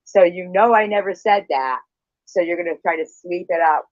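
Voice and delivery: loud, rising angry tirade; real loud anger, words tumbling out fast; furious outburst. Real, not acted. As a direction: blow up at her accusation. Heated live argument, accused of deleting.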